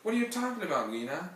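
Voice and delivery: loud, high shout from the next room. Acted. Uncle shouting from the dining room, annoyed. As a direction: uncle yelling at his wife from the card table. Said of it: "Dutch would shout".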